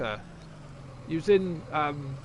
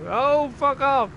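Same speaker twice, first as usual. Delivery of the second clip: high, drawn-out exasperation; exasperated outburst; 8 semitones higher, 4 dB louder, slower than usual. Real, not acted. Fed-up listener telling the ad where to go, exasperated outburst. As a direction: blow up at the advert, stretching it out.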